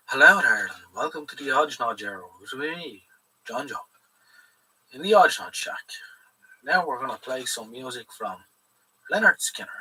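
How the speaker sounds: lightly voiced radio host intro; a hint of a smooth DJ welcoming listeners; playful mock radio presenter. Shown as a demonstration. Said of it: "if I turn off the camera and you just listen to me voice".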